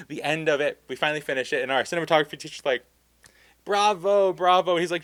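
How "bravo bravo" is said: higher, louder, grand applause call; hamming up a delighted teacher; mock teacher praise. Cinematography teacher cheering the film, grandly.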